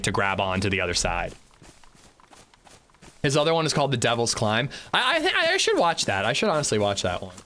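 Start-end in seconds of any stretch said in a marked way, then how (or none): 3.2-7.3 eating an apple while talking; mouth full. Real, not acted. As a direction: talk through a bite of apple. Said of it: "Sorry, I'm eating an apple".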